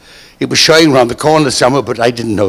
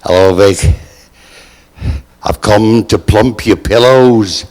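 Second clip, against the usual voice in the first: George's voice; 6 semitones lower, slower than usual. Retold or imitated. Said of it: "He walked in and said".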